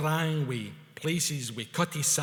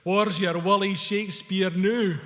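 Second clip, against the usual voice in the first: loud, higher triumphant call; 5 semitones higher, 7 dB louder than usual. A narrator's reading. Wally to the English couples boarding the bus, out loud. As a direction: call it out for all to hear. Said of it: "said out loud to the English couples".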